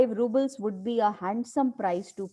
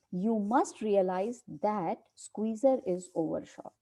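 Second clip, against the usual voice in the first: slow, deliberate reading of a play line; dramatic play reading; much slower than usual. Acted. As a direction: read it out slowly like a script. Teacher reads play aloud.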